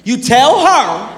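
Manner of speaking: slow, firm threatening mother; a hint of angry mom. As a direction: lay down the law. Mom angry about teacher's note.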